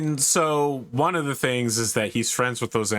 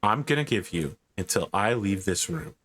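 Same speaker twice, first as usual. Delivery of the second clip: softer, lower, quietly disappointed father; 4 semitones lower, 3 dB quieter than usual. Acted. Father giving his son an ultimatum, lightly voiced and disappointed. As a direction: let the disappointment sink in quietly. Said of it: "He looks at you so disappointed and he says".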